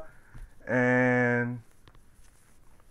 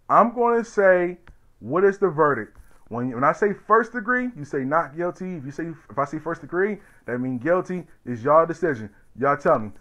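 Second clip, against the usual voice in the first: court clerk; 6 semitones higher, 3 dB louder than usual. Retold or imitated. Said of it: "this guy stand up and he said".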